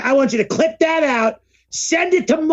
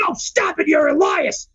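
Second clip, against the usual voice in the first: higher, pleading stop-it voice; imitating Ezekiel; 4 semitones higher than usual. Retelling Ezekiel's interview line, higher whine. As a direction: squeak out a whiny denial. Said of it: "He's like".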